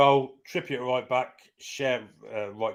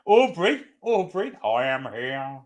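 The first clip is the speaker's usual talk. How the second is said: Only Fools and Horses impression; slower than usual. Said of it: "the sort of sounds of Fools and Horses".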